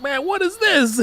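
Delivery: put-on a boy thrilled by new food; amazed classmate.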